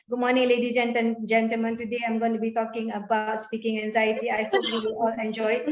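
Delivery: flat droning delivery with no highs or lows; monotone demo of a dull opening; monotonous. Shown as a demonstration. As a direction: read it like a bored robot, quick and even. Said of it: "Yeah, that's monotonous".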